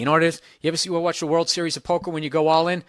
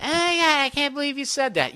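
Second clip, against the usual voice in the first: put-on high shocked girly voice; shocked girl; 9 semitones higher than usual. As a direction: gasp it out as the offended friend, pitched way up. Acted girl's shocked reply.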